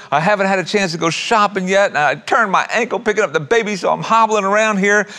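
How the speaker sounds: a hint of a tearful daughter pouring out her troubles; mock tearful daughter. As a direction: play a frazzled mom near tears, half in fun. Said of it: "the mom just burst into tears".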